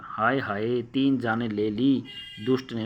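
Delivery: slow, grieving anger; angry lament. Acted. Mother laments the dead chicks, slow angry grief. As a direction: wail the loss at the boy. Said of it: "गुस्से के भाव में कह रही है".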